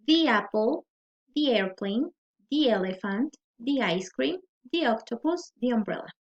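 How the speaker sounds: "the" as "thee" before each vowel; "the" pronounced "di". Shown as a demonstration. Teacher listing vowel-sound examples, each "the" said "di". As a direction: say every "the" with a long ee, rhyming with see. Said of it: "se va a pronunciar como di".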